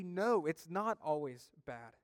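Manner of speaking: firm denial with a punched no; emphatic no. Real, not acted. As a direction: stress on no, falling firmly. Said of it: "I would say emphatically".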